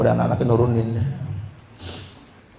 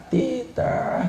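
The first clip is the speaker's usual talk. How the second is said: coaxing whisper; 5 dB quieter than usual. Retold or imitated. Coaxing toddler to walk.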